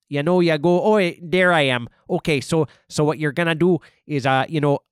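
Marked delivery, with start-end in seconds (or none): 0.8-1.9 put-on Chicago accent. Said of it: "do that accent".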